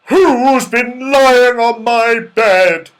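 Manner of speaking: loud, slow, growly bear roar; growly Father Bear. A narrator's reading. Father Bear finds someone on his bed, growly. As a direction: growl it out slowly and loudly. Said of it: "in a growly voice".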